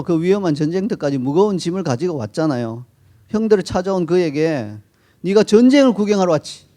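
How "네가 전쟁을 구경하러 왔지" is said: accusing scold, a bit louder and higher; mock scolding. Older brother scolds David with an accusing tone. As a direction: jump to conclusions and scold him. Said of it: "이렇게 야단치는 거예요".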